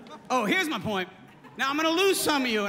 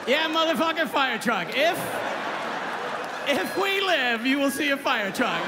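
pumped-up yell; 2 semitones higher, 3 dB louder than usual. Acted. Pilot replying excitedly.

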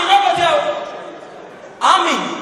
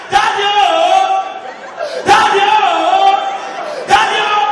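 mock crying wail; 3 semitones higher, slower than usual. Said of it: "one day cry".

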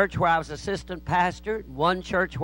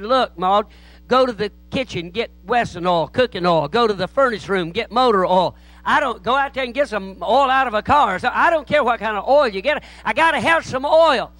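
acted exasperation building higher and louder; mounting exasperation; 4 semitones higher, 4 dB louder than usual. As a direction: order her about, growing desperate. Pastor frantically orders secretary to find oil.

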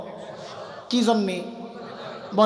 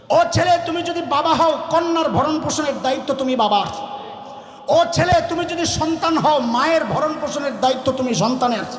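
preaching litany; 3 semitones higher than usual. Acted.

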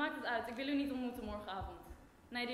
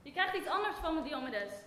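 firm loud refusal; 6 dB louder than usual. Acted. Refusing to give the token.

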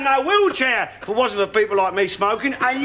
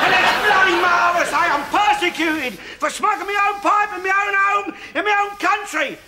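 indignant rant; 3 semitones higher than usual. Acted. Ranting old man defends his pipe.

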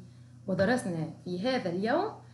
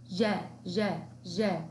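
syllable drill; 2 semitones lower, slower than usual. Shown as a demonstration. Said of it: "لديها حركة الفتح".

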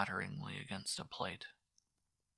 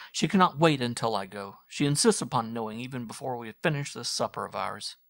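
louder, lightly joking son's voice; teasing son; 4 semitones higher, 9 dB louder than usual. Acted. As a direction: deflect your mother with banter. Son teases mother about leaving.

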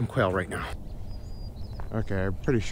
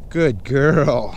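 squeaky praising a dog; 4 semitones higher, 7 dB louder than usual. Real, not acted.

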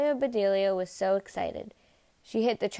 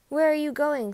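raised, higher-pitched demand; calling after someone; 6 semitones higher, 4 dB louder than usual. A narrator's reading. Conductor calls after Amelia going out, raised voice. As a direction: call out as someone walks off.

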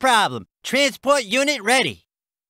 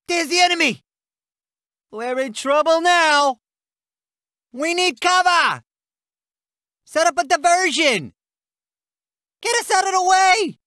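acted alarm, pitch raised; urgent combat alert; 3 semitones higher than usual. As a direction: call out danger to the unit. Combat alert, calling for cover.

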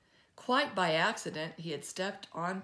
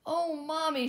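put-on excited child, higher and louder; excited little girl; 10 semitones higher, 6 dB louder than usual. A narrator's reading. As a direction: call out to Mommy, thrilled.

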